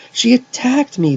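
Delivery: very high, loud protest; crying out. A narrator's reading. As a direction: cry out the accusation. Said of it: "Jeff cried".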